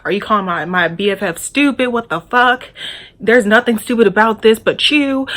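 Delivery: retelling a furious roommate; imitated going off. Roommate's friend defends her BFF, imitated angry rant. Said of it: "this girl's going off".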